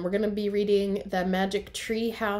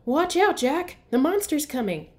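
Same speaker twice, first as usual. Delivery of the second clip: much higher, louder excited warning; pretend warning; 6 semitones higher, 6 dB louder than usual. Annie playing monster with Jack, excited pretend warning. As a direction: call out the pretend danger with glee.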